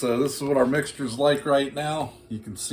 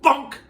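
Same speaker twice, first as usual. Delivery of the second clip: a sudden, much higher and louder cartoon "Bonk!"; mock bonk; 13 semitones higher, 6 dB louder than usual. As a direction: pop out "Bonk!" like a comic head knock. Mock knock on the head.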